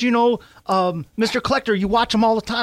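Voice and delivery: put-on a small kid stating the obvious to dad; imitating little son. Host imitating his son insisting dad watches him, high kid voice. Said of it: "He goes".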